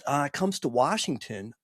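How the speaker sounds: imitating the quarterback starting his tale; the old quarterback. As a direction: slip into his voice for the story. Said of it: "He goes".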